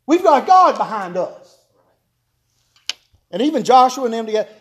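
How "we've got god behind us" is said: eager urging. Retold or imitated. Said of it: "Caleb's out there barking".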